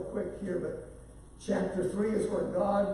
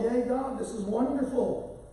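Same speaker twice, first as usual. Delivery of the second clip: lightly acted cheer, pitched up; mock excitement; 4 semitones higher than usual. People of Israel celebrate their deliverance, mildly acted excitement. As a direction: imitate a delighted crowd praising. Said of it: "they're all excited".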